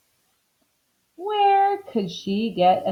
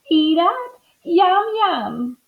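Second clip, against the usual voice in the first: dreaming Missus Watson; 9 semitones higher, slower than usual. A narrator's reading. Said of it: "Missus Watson said in her sleep".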